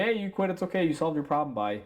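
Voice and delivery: lightly mocking dismissive voice; mock breezy brush-off. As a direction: toss it off like it's no big deal.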